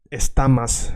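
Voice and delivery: estamas with an a in the last syllable; wrong final vowel. Shown as a demonstration. Teacher showing students the wrong verb ending, estamas ending in a. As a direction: end estamas on "mas", not "mos". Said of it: "but you don't say".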